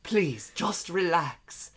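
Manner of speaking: soft, comforting. Acted. Man calms frightened Stacy, soft comforting voice. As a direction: ease her down slowly. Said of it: "he said in a soft, comforting voice".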